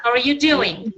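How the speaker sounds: "doing" goes down at the end; teacher's model question, falling on "doing"; falling intonation. Shown as a demonstration. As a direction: bring the pitch down on "doing". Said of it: "you don't have your intonation up".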